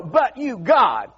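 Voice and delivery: rising preacher shout on "but you, God"; the preacher calls out to the congregation, building to a shout; preaching shout. Acted. Preacher building call-and-response.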